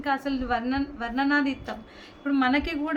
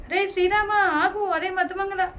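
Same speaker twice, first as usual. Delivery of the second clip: higher, louder, slow drawn-out call; 5 semitones higher, 3 dB louder than usual. Acted. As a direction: call out to friends lost in memory. Krishna cries out in memory.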